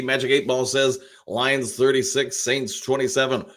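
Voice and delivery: a light, playful announcer voice. Pretend. Host reads a viewer's score prediction, in a light announcer voice. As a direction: read out the prediction with a hint of announcer. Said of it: "Using my announcer voice there a little bit".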